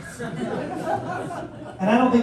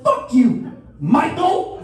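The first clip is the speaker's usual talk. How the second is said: louder, higher outraged yell at Michael; mock yell; 11 semitones higher, 4 dB louder, much slower than usual. Comic imitating someone yelling at a freeloader. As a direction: snap back at a freeloading puncher. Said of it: "You'd be like".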